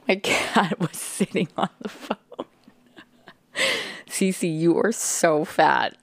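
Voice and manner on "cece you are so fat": slow, drawn-out teasing coo at the cat; teasing pet talk. Real, not acted. Owner teasing her cat Cece, slow affectionate coo. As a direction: tease the cat fondly, stretching it out.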